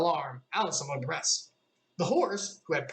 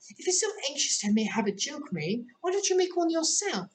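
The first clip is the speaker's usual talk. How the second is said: higher, rising to a challenge; Alice voice; 12 semitones higher than usual. A narrator's reading. Alice challenging the gnat, climbing higher. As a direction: dare it to try.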